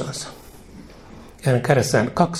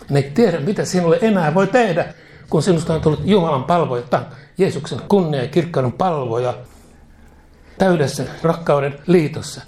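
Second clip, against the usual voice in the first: raised exclamation; 4 semitones higher than usual. Acted. Preacher mocks the helpless demons.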